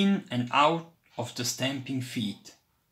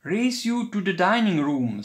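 raised eager challenge; playful challenge; 5 semitones higher, 4 dB louder than usual. A narrator's reading. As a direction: dare your cousin to race.

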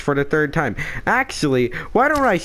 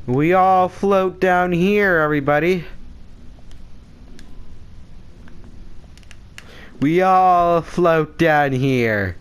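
creepy clown voice; 4 semitones higher than usual. Retold or imitated. Quoting clown from It.

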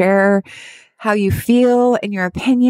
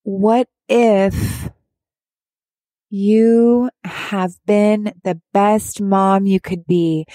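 slow tender reassurance; much slower than usual. Retold or imitated. Asking a grieving mom, as her therapist did, slow and tender. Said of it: "what my beautiful therapist says to me".

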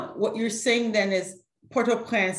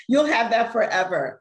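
laughing through the line, a little louder; 3 semitones higher, 5 dB louder than usual. Real, not acted. Host teasing the guest about her port, laughing. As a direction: chuckle out the joke about it lasting forever.

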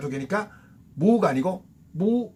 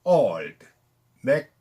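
slow demo; 3 semitones lower than usual. Shown as a demonstration. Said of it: "천천히 할게요".

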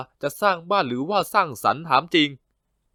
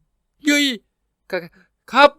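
much higher, jumpy yelp; startled yelp; 13 semitones higher, 4 dB louder, much slower than usual. Acted. Junior startled when the boss suddenly calls his name. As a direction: jump out of your skin.

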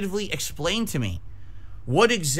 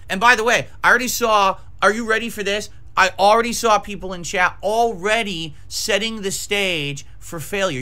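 wild unhinged ranting; 3 semitones higher, 3 dB louder than usual. Real, not acted. Building rant.

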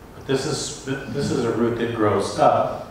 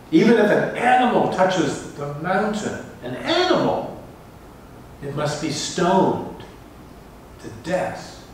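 thunderous divine command; 8 semitones higher than usual. Acted. God's command at Sinai quoted.

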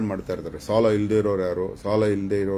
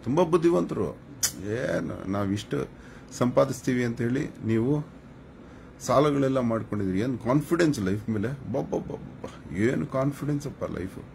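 mock admiration, pitched high; sarcastic praise; 4 semitones higher than usual. Real, not acted. Streamer mocking indebted viewers' confidence, high-pitched sarcasm. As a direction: marvel at them in a raised, teasing pitch.

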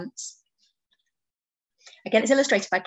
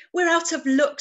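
higher, louder storybook wail; mild mock sob; 7 semitones higher, 5 dB louder than usual. A narrator's reading. Pufferfish to friends about lost pants, mild mock sob. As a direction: lament it lightly, with no real tears. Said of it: "sobbed Pufferfish".

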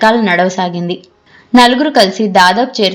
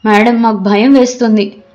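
alarmed cry; 3 semitones higher than usual. Acted. Students fearing a kidnapping to their teacher, mildly alarmed. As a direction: cry out in mild panic, then settle. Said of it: "పిల్లలంతా గట్టిగా అరిచారు".

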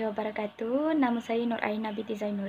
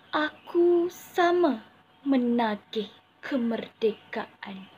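dramatic poem recitation; hammy stage actor; 3 dB louder than usual. Shown as a demonstration. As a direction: declaim it like a stage poet. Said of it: "mendeklamasikan sebuah sajak".

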